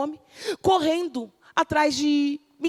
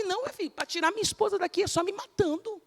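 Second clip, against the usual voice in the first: defiant husband; 7 semitones higher, 7 dB quieter, faster than usual. Acted. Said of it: "Tu vai falar assim".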